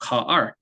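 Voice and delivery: "car" with the R said level, not dropped; monotone R, wrong. Shown as a demonstration. Teacher demonstrating a mistake, "car" with a monotone R. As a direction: keep the R of "car" on one tone. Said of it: "모노톤으로 하게 되면 발음은 이렇게 됩니다".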